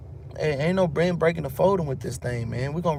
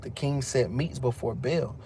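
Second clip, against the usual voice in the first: ordinary delivery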